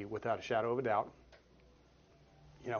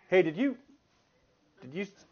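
higher, louder call down the hall; calling into the hallway; 6 semitones higher, 6 dB louder than usual. Retold or imitated. Men calling into the hallway, higher and louder. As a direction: shout out to whoever's outside.

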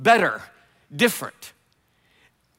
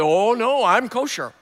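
pleading Peter; 2 semitones higher than usual. Retold or imitated. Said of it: "Peter says".

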